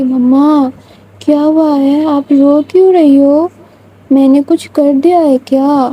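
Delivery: put-on a small child begging mommy to answer; little girl voice. Child Vania asks crying mother. (ننھی بچی کی معصوم آواز)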